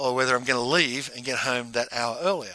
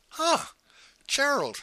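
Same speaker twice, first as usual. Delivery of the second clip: much higher startled recognition of Gerald; surprised; 12 semitones higher, slower than usual. Retold or imitated. Pete spots his old IBM colleague in the foyer, high startled surprise. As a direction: caught off guard, sound of sudden recognition.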